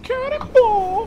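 long, high, drawn-out yell; cannonball yell. Real, not acted. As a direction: belt it out as you jump. Launching himself across the room.

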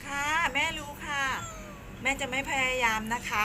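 high, emphatic pet-talk; high singsong cooing to a pet; cutesy small voice. Real, not acted. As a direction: placate a cross cat in a tiny voice. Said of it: "ทำเสียงเล็กเสียงน้อย".

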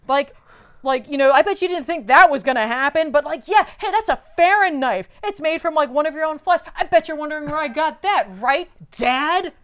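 loud, high, gloating taunt at his father. Retold or imitated. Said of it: "he's just like".

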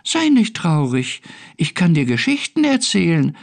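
high, friendly tiny-being voice; little creature. A narrator's reading. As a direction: coax like a small storybook creature. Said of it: "sagte das kleine Wesen".

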